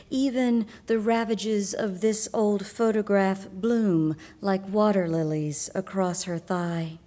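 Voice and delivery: measured, deliberate recital with lingering line endings; poetry reading. Acted. Poet reading the title poem to an audience, measured recital. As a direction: read it as a solemn poem, each phrase set apart.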